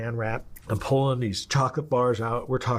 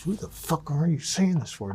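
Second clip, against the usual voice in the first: incredulous; 7 semitones higher than usual. Retold or imitated. Silent reaction to incriminating phone talk.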